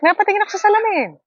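high laughing shout. Real, not acted. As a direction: burst out laughing at yourself. Laughing at own nose. (tumatawang sigaw)

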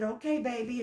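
soft, low motherly reply; hushed, tender imitation of mom. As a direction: voice a proud mother gently.

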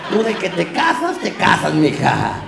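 emphatic mock pep talk, swooping up then down; hammed-up brotherly promise, punched at the end; mock reassurance. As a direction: promise it to your sister with comic conviction.

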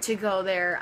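talking through a mouthful of "so much fun"; chewing while saying "amazing"; mouth full. Real, not acted. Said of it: "I'm eating a Pop-Tart".

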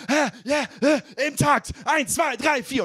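imitating the spin trainer yelling the beat; trainer shouting. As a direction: bark the count like a spin coach. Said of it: "Und sie brüllt so".

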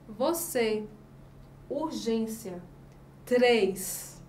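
"Você, urgência, três" with a closed ê; closed vowels. Shown as a demonstration. Teacher showing what the circumflex sounds like, closed vowels. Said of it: "o acento circunflexo representa o som fechado".

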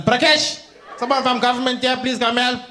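calling the son from the other room. Acted. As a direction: shout for Prakesh to come help. Auntie calling her son.

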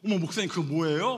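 loud, exclaiming question; mock amazed bystander; impressed onlooker. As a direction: act out a curious admirer, loudly. Acts out impressed church members' question.

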